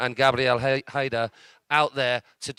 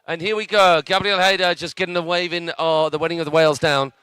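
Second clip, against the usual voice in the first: louder, higher commentary as the run starts; excited play-by-play; 4 semitones higher, 5 dB louder than usual. Real, not acted. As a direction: pick up energy for the rider. Rider starts, live commentary.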